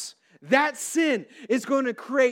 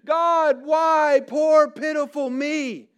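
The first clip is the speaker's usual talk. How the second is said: loud, raised, hammed-up plea to God; mock weeping lament; 3 semitones higher, 4 dB louder, slower than usual. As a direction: cry out in acted self-pity. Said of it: "He is weeping".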